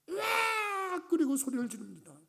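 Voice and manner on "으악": high startled scream of joy; shriek of joy. Retold or imitated. English teacher seeing the test result, high joyful scream. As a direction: let out a sudden high joyful yell. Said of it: "검사를 하다가 소리를 지르는데".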